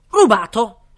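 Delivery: loud high outraged cry; shouted exclamation. Acted. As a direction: yell it in outrage. King exclaims. (grido indignato)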